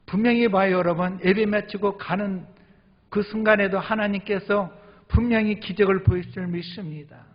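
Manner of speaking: loud, high, fervent proclamation; preaching at full force. Real, not acted. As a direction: lift the room with conviction. Preaching climax.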